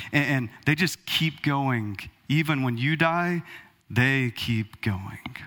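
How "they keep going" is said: whisper. Real, not acted. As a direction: breathe it out slowly. Whispered line about nature going on.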